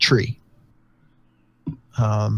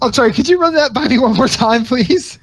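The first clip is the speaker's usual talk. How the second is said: mock disbelief; 11 semitones higher, 4 dB louder, faster than usual. Mock bewilderment at player.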